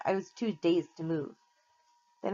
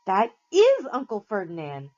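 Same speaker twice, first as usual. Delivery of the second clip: gasped; 2 semitones higher, 6 dB louder than usual. A narrator's reading. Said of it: "Grover gasped".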